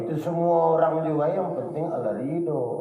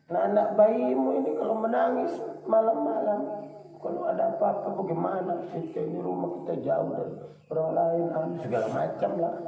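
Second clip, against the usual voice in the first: wife's nagging; 5 semitones higher than usual. Retold or imitated. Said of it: "pulang dia pasti ngomel".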